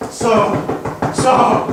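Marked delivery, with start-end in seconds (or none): 1.1-1.7 whispered. Acted. Smothering her, whispered.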